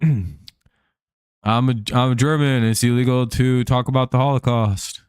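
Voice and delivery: lightly attempted German accent; badly faked German accent; a hint of a German guy's accent. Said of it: "I got a German guy".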